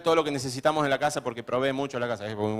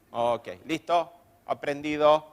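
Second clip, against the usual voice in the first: lightly voiced slow acknowledgement; easygoing acceptance; 3 dB quieter, slower than usual. Juancito accepts a correction, slow and easygoing. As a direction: slowly take the correction on board. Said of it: "Así hablaba, ¿no?".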